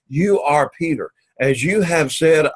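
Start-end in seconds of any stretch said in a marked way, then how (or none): 0.1-1.1 "you" given clear weight before "are Peter"; emphasize "you" and fall away to "Peter"; stress on you. Shown as a demonstration. Teacher explaining what the Greek emphasizes, stress on you. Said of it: "it's emphasizing more the idea".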